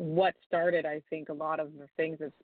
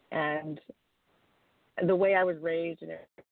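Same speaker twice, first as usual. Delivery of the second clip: cutting out. Real, not acted. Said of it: "I think you're cutting out here".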